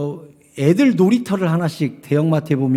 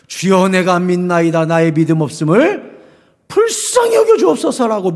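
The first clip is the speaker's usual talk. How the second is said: pleading prayer; 3 dB louder than usual. Acted. Quoted prayer of the father.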